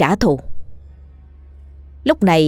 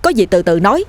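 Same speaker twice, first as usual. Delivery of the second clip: urgent, raised pleading; alarmed exclamation; 3 semitones higher, faster than usual. Acted. Dần urging the ghost to release the old man, urgent. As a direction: blurt out a pressing plea. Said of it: "anh thốt lên".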